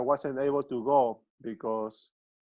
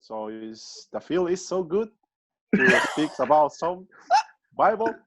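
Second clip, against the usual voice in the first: lightly voiced Peruvian sportscaster; a hint of radio play-by-play patter; football announcer; 2 semitones higher than usual. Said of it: "his impression of a football announcer".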